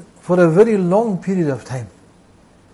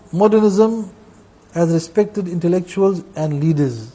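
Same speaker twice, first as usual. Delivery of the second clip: slow reading of a quote; slower than usual. Shown as a demonstration. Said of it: "See what they say, modernists".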